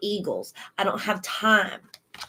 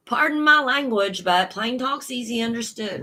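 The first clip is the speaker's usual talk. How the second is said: put-on grandpa's Cajun accent; 3 semitones higher than usual. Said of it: "my accent changes too when I channel what my grandpa says".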